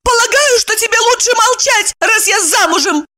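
high, cutting reply; indignant retort. A narrator's reading. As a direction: snap back in indignation. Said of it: "негодуя отрезала Евдокия".

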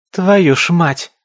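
loud, high, slow swearing; exasperated curse. A narrator's reading. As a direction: curse out loud at the sight of them. Character swears at a crowd of creatures. (громкое раздосадованное ругательство)

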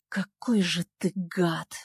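медленно, с неприкрытым презрением; процедить презрительно. Acted. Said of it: "не скрывая своего презрения". (героиня презрительно говорит Нику)

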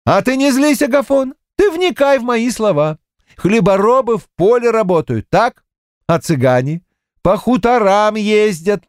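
high, sly explaining voice; high needling clerk; teasing bookkeeper. A narrator's reading. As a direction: lecture him slyly.

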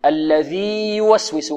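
الذي يوسوس slow, long ī before the y; separated ya. Shown as a demonstration. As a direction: hold الذي, then start يوسوس cleanly. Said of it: "خطأ، لا تدغم". (الذي يوسوس بإظهار الياء)

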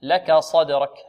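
slow لك صدرك; slow model. Shown as a demonstration. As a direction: read لك صدرك slowly. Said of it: "لك كلها مرققة".

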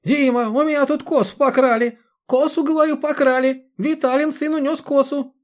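high, loud shrill-voiced old woman complaining; a frantic old woman shouting to her son by phone. A narrator's reading.

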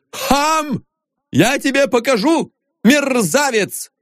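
high, indignant shout; shouting threat. A narrator's reading. Viktor Mikhailovich shouts threats at the departing janitor. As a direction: bluster from safety. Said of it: "закричал Виктор Михайлович".

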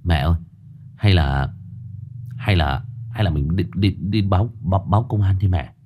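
stammering, repeating words, begging; a scared son pleading with his mother; timid pleading. Acted. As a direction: son begging mother to call police, halting. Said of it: "năn nỉ".

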